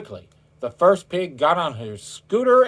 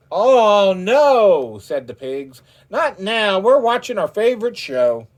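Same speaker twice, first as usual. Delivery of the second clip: pigs refusing; 7 semitones higher, 5 dB louder than usual. A narrator's reading.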